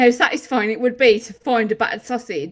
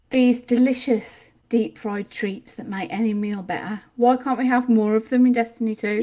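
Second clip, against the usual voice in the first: mock pitch. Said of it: "Can't even keep a straight face".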